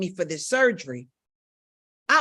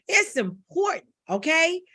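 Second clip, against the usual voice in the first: pleading; 7 semitones higher than usual. Real, not acted. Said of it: "being a little bit emotional".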